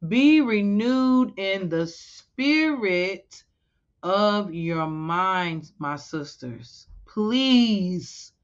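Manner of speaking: pleading sermon cadence; preaching. Acted. Exhorting sisters with scripture.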